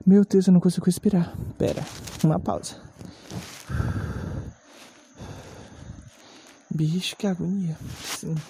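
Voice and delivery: catching breath between phrases; breathless, needs a pause; wind knocked out. Real, not acted. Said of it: "vou recobrar um pouco o fôlego".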